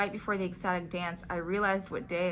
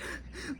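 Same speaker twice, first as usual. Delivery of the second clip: imitated sobbing catch of breath; quick mock gasp between sobs; choked sob gasp; 8 dB quieter than usual. Telling her friend why she was so upset, mimicked choked sob. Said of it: "like, choked sobs".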